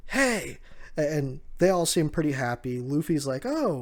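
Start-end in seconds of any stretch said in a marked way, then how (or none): 0.1-0.6 mock call from a way off. Momo spotting the others, high-pitched call. 3.5-3.8 high, smiling oh; light, high-pitched little exclamation; happy surprise. Acted. Luffy noticing Momo, pleasantly surprised high oh. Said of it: "with a smile on his face".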